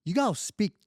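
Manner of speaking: hammed-up Southern American accent, pitch climbing on "here". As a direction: play a surprised Southern American tourist. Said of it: "people from, like, the South coming up to Quebec".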